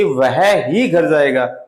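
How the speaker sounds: slow, ही leaned on hard; only him, stress ही. Shown as a demonstration. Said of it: "जोर दे करके".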